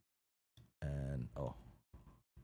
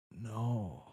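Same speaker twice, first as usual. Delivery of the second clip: drawn-out, higher mock wail of no; acted dismay; 4 semitones higher than usual. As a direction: draw it out as the dismayed girl. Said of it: "And she's like".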